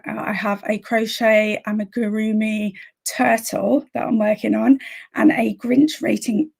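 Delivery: slightly hoarse losing voice. Real, not acted. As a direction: speak with a voice that is going. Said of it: "already losing my voice".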